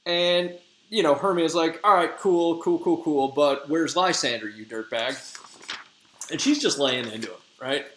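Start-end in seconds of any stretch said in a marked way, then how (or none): 1.8-5.2 higher, louder, sarcastic "cool, cool, cool"; dismissive Hermia. Retold or imitated. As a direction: brush him off, then snap. Hermia brushes him off sharply.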